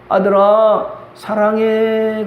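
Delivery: father tenderly telling his son he loves him. Retold or imitated. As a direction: say it gently, like a first confession of love. Father finally saying love.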